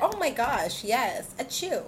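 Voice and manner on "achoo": a quick mock sneeze; fake sneeze. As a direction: pretend to sneeze, allergic to fakes. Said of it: "She said achoo".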